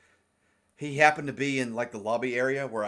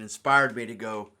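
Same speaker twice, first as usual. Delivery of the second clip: hiccuping mid-sentence; words broken by a hiccup; 3 semitones lower than usual. Real, not acted. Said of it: "Sorry, I got the hiccups".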